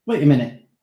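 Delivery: sharp, sudden snap; snapped. Acted. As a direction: snap it out impatiently. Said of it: "he snapped".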